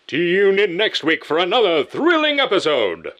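put-on high, loud old-time radio announcer; prize announcer. Shown as a demonstration. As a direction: boom it like a game show host. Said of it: "announcer and movie trailer voices".

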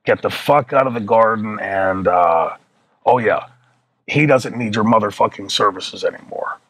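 halting, piece-by-piece recital with long gaps; remembering in pieces. Retold or imitated. Arnie relaying the boss's verbatim message, halting recall. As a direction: relay it slowly in chunks, groping for the next bit. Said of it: "trying to remember it in pieces".

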